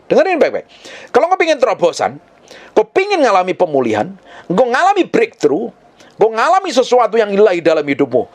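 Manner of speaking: high-pitched, urgent exhortation; impassioned preaching. Real, not acted. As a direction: preach it with rising fervour. Preaches at rising intensity.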